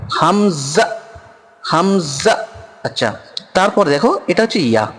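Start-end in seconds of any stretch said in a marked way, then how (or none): 0.1-2.5 হামজা with a slight jerk on the hamza; হামজা with a light glottal stop. Shown as a demonstration. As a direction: give হামজা a small catch in the throat. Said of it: "এখানে হালকা ঝাটকা মারবে".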